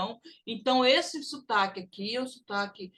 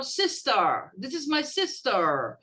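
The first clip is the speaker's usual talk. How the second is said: British accent; slower than usual. Shown as a demonstration. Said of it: "às vezes eu falo".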